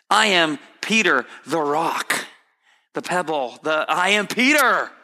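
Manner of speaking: lightly voiced, affronted Peter; offended Peter. Preacher voicing Peter complaining to the Lord, mildly offended. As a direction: play the proud disciple insulted.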